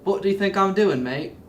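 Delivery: lightly put-on Australian accent; mock Australian comeback, falling away at the end; Sam Worthington. Actor answers request for British accent, imitated Australian accent. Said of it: "can you do a British accent".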